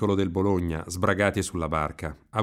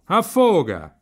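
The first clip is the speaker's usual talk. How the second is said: loud, high urgent cry; shouting; 11 semitones higher, 9 dB louder, much slower than usual. A narrator's reading. Riccetto warns that the swallow drowns, loud high shout. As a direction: cry out the alarm. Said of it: "gridava il Riccetto".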